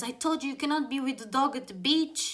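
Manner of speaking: fast, high-pitched telling-off; scolding policeman. Retold or imitated. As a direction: imitate an upset officer repeating the rule. Retold scolding by returning policeman.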